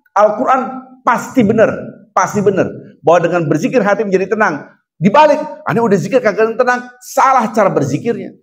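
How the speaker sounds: high and loud, urgent sermon; fiery preaching. Acted. Preacher scolding the congregation to return to zikir, fiery preaching. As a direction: preach at full force, pressing the crowd.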